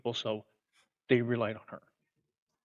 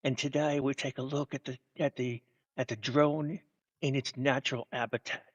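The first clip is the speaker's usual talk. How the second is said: slow, hushed wildlife narrator; nature documentary; slower than usual. Pretend.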